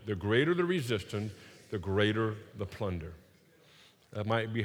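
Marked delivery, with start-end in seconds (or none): 0.1-3.1 "The greater the resistance, the greater the plunder" low and measured; call and response. Shown as a demonstration. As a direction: let the crowd echo it. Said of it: "Say that with me".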